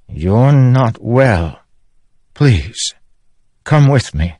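husband gently begging his wife to come; pleading king. Acted. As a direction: coax her to come along.

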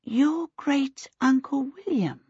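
breathy secretive whisper; hushed whisper. Acted. Missus Baker whispering to Aunt Sempronia about the wizard. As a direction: whisper it like gossip.

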